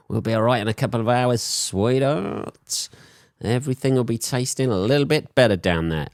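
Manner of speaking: fast, sly pretend chat-up; hammed-up flirty whisper-free croon; mock seductive line. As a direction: wink at the date and promise the pineapple works. Voicing himself to first date.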